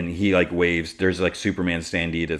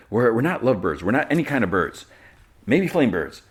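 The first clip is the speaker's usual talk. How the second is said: higher, mock-indignant protest; flustered denial; 5 semitones higher, 4 dB louder than usual. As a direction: imitate someone flustered into protesting. Voices Jimmy's flustered denial.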